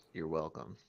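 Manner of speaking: lightly voiced low raspy dragon; a hint of a rasp; raspy reply. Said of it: "There's a long period of silence, followed by".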